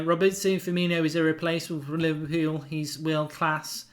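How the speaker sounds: put-on lazy, slowed Liverpool accent reading a viewer comment. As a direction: read the comment in a half-hearted Scouse accent. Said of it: "a lazy Liverpool there".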